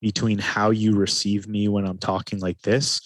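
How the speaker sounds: slowed, unhurried delivery; slow calm talking. Shown as a demonstration. Coach showing the difference, slow calm voice. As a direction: talk slowly and evenly to show calm. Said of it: "think about the difference".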